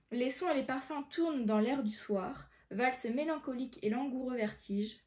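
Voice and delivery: measured verse read-aloud; careful recitation of verse; poem reading. Acted.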